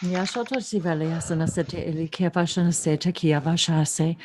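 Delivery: even, flowing chant of invented syllables; trance-like channeled recitation; light language channeling. Real, not acted. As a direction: intone mystical syllables in an unbroken stream.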